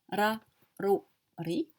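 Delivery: "ra" "rou" "ri" with a medium rolled r; lightly rolled r. Shown as a demonstration. Teacher shows a moderately rolled r. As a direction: roll the r a little, not too much. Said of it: "il n'est pas très roulé, euh, moyen".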